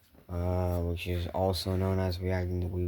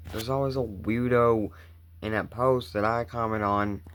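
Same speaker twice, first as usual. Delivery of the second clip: louder, heated complaining; exasperated rant; 2 semitones higher, 4 dB louder than usual. Real, not acted. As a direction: vent about the weirdos. Ranting about weirdos.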